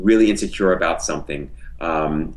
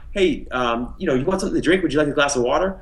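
friendly offer; 6 semitones higher than usual. Pretend. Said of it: "if I was like right now".

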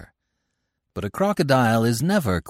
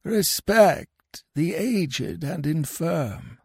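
mumbling; 8 semitones higher, much slower than usual. A narrator's reading.

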